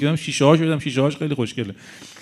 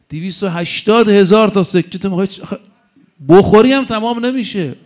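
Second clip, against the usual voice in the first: louder and higher, scolding; indignant outburst; 4 semitones higher, 5 dB louder than usual. Real, not acted. Preacher scolding the congregation over hoarding coins, louder rebuke.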